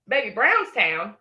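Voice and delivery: slow unvoiced taunt; mock-sweet whisper to the rival. Real, not acted. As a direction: whisper it like a secret dig. Taunting rival about her town.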